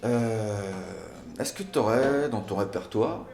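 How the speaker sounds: exasperated. Acted. Bored date asking for better conversation, exasperated. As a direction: interrupt loudly, fed up with the small talk.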